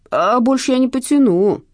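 high, loud complaint; plaintive haggling thief; whining. A narrator's reading. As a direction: whine that you can't afford it. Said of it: "заныл Шнурок".

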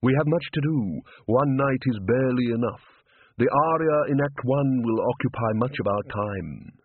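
measured, formal instructor's voice; a hint of a stern, mysterious music master; lightly voiced opera tutor.

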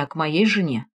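plain reading voice

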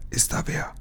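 breathy unvoiced whisper. A narrator's reading. Lukas asking who is there in the dark, whispering. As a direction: whisper so the guards won't hear. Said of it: "flüsterte er".

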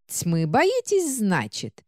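медленно, угрожающе и с презрением; процеди со злостью, растягивая; гневное шипение. Acted. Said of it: "гневно зашипела". (гневно шипит)

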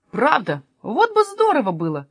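wishful, lifting high on the end; dreamy. Acted. Jesper imagining life without Sofia, dreamy. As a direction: drift up into a daydream. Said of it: "мечтательно сказал Еспер".

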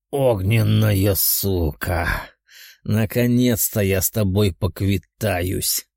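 slow, low menacing growl; growling lizard. Acted. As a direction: snarl the threat slowly. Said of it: "прорычал ящер".

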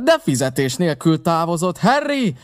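high, urgent shouted order; Silver's shout. A narrator's reading. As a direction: call out to send a man running. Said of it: "kiáltotta Silver".

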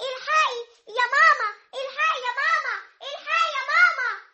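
put-on a tattling girl shouting for her mother; calling out. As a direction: cry out for mama to come.

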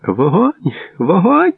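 high shouted command, climbing on the repeat; shouted order. A narrator's reading. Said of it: "кричав крізь розстріляну ніч Бартель". (високий крик-наказ)

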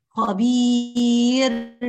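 خبير very slow with air pushed out on the ra; airy ra error. Shown as a demonstration. Teacher repeats the breathy ra mistake. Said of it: "يعني ما نقولش خبير".

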